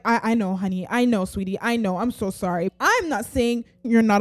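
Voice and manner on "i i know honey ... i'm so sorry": soft, lower, gentle consoling; tender comforting. Retold or imitated. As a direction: comfort a hurting child softly. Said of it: "God is like".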